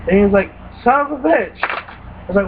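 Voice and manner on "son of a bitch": higher, exasperated swear; friend's frustrated curse. Retold or imitated. Friend swearing after dying in the next room. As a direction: curse the game in disgust.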